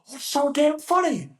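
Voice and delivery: high-pitched mock yell; imitated angry instructor. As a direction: holler it like an outraged drill instructor. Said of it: "the big angry man".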